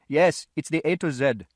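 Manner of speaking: impatient London shopkeeper; gruff shopkeeper. A narrator's reading. Shopkeeper voiced in story.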